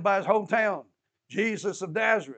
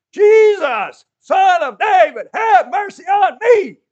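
desperate scream, much higher and louder, slow; 13 semitones higher, 18 dB louder, slower than usual. Retold or imitated. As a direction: scream it with all you have to be heard. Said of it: "He screamed".

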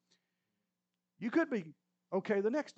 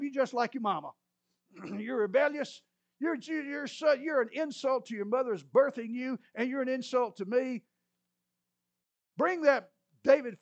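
loud, high, furious tirade; raging king; 6 semitones higher, 5 dB louder than usual. Acted. Angry king insulting his son, loud and high.

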